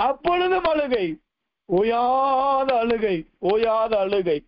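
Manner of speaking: insistent sermon cadence, each phrase drawn to a falling end; rhythmic preaching. Acted. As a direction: pile up the list like a preacher. (தாளத்தோடு அழுத்தமான பிரசங்கம்)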